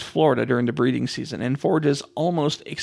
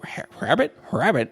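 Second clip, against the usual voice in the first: mock puzzled question; 3 semitones higher than usual.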